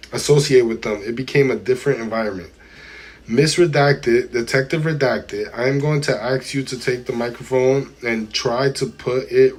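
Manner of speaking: measured, deliberate reading voice; transcript read-aloud. A narrator's reading. Streamer reads testimony to chat, deliberate read-aloud. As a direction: read it out word by word, formally.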